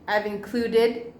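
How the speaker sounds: slow, careful "included" with every syllable clear; correcting pronunciation. Shown as a demonstration. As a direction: model "included" slowly: in-CLU-ded.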